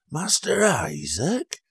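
high, slow questioning voice; hesitant recognition. Acted. Old Ned peering at the old man, high hesitant question.

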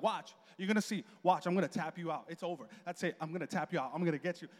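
lightly mock a cocky challenger, pitched low; imitated trash talk. Wife warning husband she'll tap him out, imitated trash talk. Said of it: "she'd start talking trash".

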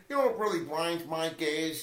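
lightly voiced Peter Griffin catchphrase; a hint of Peter Griffin, barely changed. Friend attempts cartoon dad catchphrase, lightly voiced. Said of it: "my best Peter Griffin impression".

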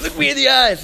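high, loud imitated yell with a laugh; hammed-up angry command; mock drill-sergeant order. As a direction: play-act bellowing at a recruit. Acting out bandleader's yelled insults.

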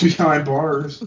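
slow, laughing tag line; drawn out through a laugh; laughing punchline. Real, not acted. Joking with co-host about hitchhiker, laughing slowly.

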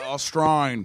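tentative Australian accent attempt; put-on Australian accent. Shown as a demonstration. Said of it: "Say something Australian".

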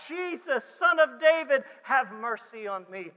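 crying out. Acted. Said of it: "He cried out".

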